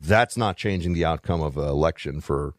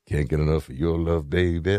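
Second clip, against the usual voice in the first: a deep-voiced soul singer; 4 semitones lower than usual. Retold or imitated. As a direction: lower crooning love-song voice. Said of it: "you said a soul singer".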